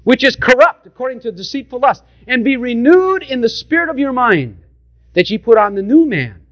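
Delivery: measured King James reading; scripture reading. Real, not acted. Preacher reading Ephesians to the congregation, measured scripture voice. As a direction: read it out like holy writ.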